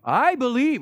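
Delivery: high, loud insistence; frantic man on a branch; eager claim. Retold or imitated. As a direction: swear you believe, loudly. Falling man pleads with God.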